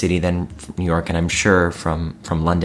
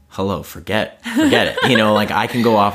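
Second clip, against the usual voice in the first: laughing; 3 semitones higher than usual. Real, not acted. Laughing about own daydreaming.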